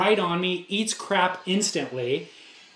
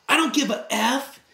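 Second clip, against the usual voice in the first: higher, snapping retort; retold shout; 6 semitones higher than usual. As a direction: bark it back at him. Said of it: "and just shouts".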